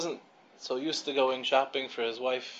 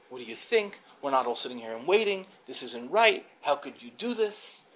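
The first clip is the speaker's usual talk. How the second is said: retold angry scolding. Businessman loses his temper in the checkout line, mock-screamed scolding. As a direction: scold indignantly, pitch jumping up at both ends. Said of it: "starts to scream at the guy".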